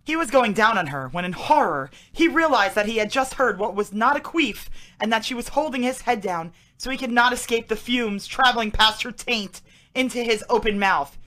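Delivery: mock-serious story reading, slowing on the last line; lightly dramatised narration; dramatic reading. Co-host reading out the term's example, mock-serious story reading.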